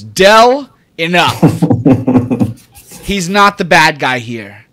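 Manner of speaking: high loud commanding voice; high shouted scold at Dell; stern rebuke. Acted. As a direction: shut him down sharply. GM voices Von Stintz scolding.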